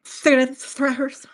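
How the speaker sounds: slow, drawn-out scoff; mocking echo. Real, not acted. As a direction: join in the mockery slowly. Echoes the mocking repeat.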